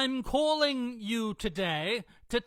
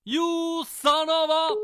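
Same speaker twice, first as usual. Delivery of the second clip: loud, higher angry outburst; 5 semitones higher, 6 dB louder than usual. Pretend. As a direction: blurt it out in outrage. Outraged caller cut off.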